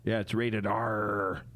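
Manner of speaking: drawn-out joke punchline; slow punchline. Pretend. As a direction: land the pun slowly. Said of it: "did you hear about that new pirate movie".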